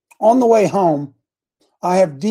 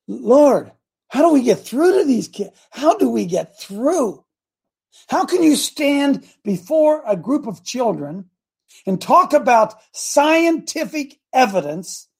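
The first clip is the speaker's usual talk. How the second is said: pleading prayer; 5 semitones higher than usual. Retold or imitated. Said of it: "And I said".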